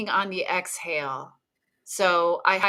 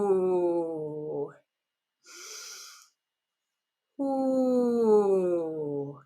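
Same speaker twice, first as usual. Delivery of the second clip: sustained ooh on the exhale; 2 semitones lower, 3 dB quieter than usual. Shown as a demonstration. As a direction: let a long ooh ride the out-breath. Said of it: "make sound on the exhale".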